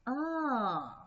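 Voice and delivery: OH drawn out with a sliding pitch; third tone. Shown as a demonstration. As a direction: stretch OH and let it slide down. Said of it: "it's the third tone".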